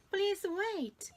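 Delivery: high, loud plea; calling out. Acted. Alice begging the rabbit to wait, loud and high. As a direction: shout it after him. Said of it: "Alice called".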